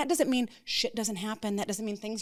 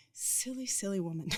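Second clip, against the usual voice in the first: self-teasing; 5 dB quieter than usual. Real, not acted. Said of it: "I look back now and I'm like".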